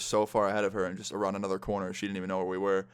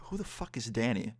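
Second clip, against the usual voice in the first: softer, puzzled aside to oneself; inner thought; 5 dB quieter than usual. Retold or imitated. Narrator silently wonders who Danny is, softer inner thought. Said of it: "thinking to myself".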